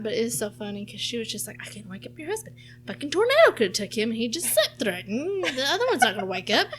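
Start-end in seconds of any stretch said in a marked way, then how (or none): 1.6-6.7 frantic mom. Retold or imitated. Retelling mom's frantic rant.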